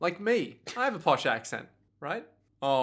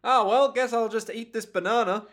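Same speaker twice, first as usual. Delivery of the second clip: higher, lightly voiced old man; 5 semitones higher than usual. Aged Narantia settles for a banana, old man voice. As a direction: resign yourself like an old man. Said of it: "doing an impression of an old man".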